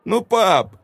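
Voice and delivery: put-on high sniffling child plea; boy whimpering at his father. A narrator's reading. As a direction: whimper at dad. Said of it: "всхлипнул мальчик".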